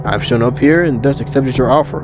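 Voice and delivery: lightly voiced formal otherworldly woman; imperious eldritch deity. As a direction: issue a measured demand, drawing out key phrases. Deity demands her gift.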